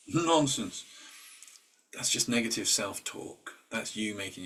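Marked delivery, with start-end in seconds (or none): 0.1-0.8 louder, higher, laughing nonsense; laughing dismissal. Real, not acted. Dismissing the self-doubting voice, laughing and emphatic. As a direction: brush it off with a laugh.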